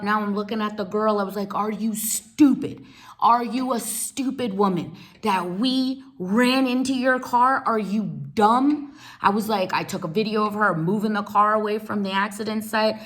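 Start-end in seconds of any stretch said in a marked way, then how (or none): 1.5-8.9 scornful retort. Retold or imitated. Mocking the driver in the fight.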